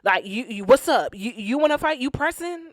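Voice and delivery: lightly hammed-up defensive challenge; mock confrontational. Chef D denying he jumped anybody, imitated confrontational talk. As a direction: imitate someone squaring up, rising at the end. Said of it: "Chef D's like".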